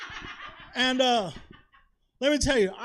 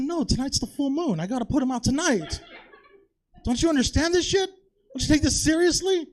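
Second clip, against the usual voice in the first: higher and louder hammed-up outrage; mock indignant rant; 5 semitones higher, 6 dB louder than usual. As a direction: scold her like she's the one who's crazy. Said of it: "I said".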